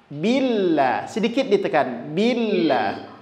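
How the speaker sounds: billah with the ll held and pressed; pressed double l. Shown as a demonstration. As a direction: lean lightly on the ll of billah. (billah dengan lam ditekan)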